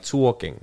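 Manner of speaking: "talking" with a drawn-out "oo-aw" vowel; exaggerated U sound. Grandson imitating grandmother, "talking" said as "too-awking". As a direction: put a U into "talking". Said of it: "when you use the you".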